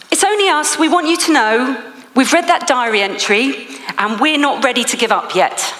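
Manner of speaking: high, bright-voiced imitation of the office team, easing down; a touch of mock sing-song reassurance; mocking cheery team. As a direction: lightly mimic the overly cheerful colleagues.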